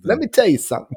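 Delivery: wrestling promo. Retold or imitated. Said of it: "they were all".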